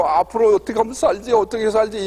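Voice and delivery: 엉엉 우는 아내 흉내; mock sobbing wife. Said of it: "막 엉엉 우는 거예요".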